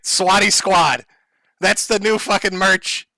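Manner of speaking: slow, loud, drawn-out announcement; slogan hype. Acted. Streamer unveiling Swatty Squad merch to the boys, slow and loud. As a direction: proclaim the new slogan like a brand launch.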